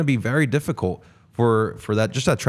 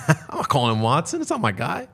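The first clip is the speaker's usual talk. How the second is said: laughing; 2 semitones higher than usual. Real, not acted. Laughs at the nickname.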